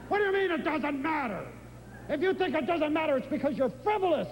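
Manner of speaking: high, quick, scolding disbelief; mock an uptight culture that thinks everything matters; indignant objection. Mocking anxious Western attitude.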